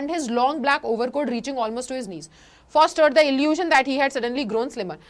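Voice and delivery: slow, careful reading of the English passage; slow text reading. Shown as a demonstration. Teacher reading the book passage to students, slow reading. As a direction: read each word out for the class.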